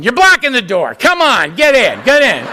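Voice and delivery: hurried, pushy door greeter; impatient greeter. Retold or imitated. Greeter at the door hustling newcomers inside. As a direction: wave them in, laughing and impatient. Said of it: "I'm standing there just going".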